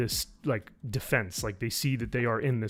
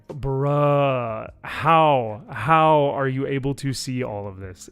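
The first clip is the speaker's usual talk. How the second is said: incredulous; 3 dB louder, slower than usual. Retold or imitated. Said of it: "And I was like".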